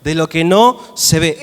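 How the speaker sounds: slow call-and-repeat definition; recited for repeating. Shown as a demonstration. Preacher leading the congregation in a recited definition. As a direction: spell it out for the church to repeat. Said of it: "Repetí conmigo".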